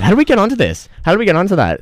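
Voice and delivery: high, loud, half-laughing disbelief; incredulous exclaim. Real, not acted. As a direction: suddenly realise how far off-topic you've gone. Sudden realisation mid-story.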